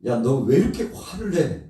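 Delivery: laughing, teasing scold; amused rebuke. Acted. God asking angry Jonah why, with a laugh. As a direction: tease him while you scold.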